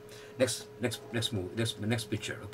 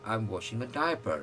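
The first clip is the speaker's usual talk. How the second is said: slow model sentence; much slower than usual. Shown as a demonstration.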